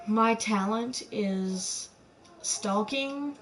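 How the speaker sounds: slow, sucked-in breathy words; talking while inhaling. Shown as a demonstration. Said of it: "Talking while inhaling is my talent".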